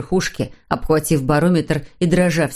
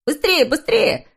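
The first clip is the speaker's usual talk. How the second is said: urging; 8 semitones higher than usual. A narrator's reading. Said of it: "подгонял его Снус Мумрик".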